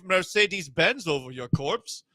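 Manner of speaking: high cartoonish German, drifting Russian; silly villain accent gone Russian; German accent turning Russian. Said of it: "Turned Russian".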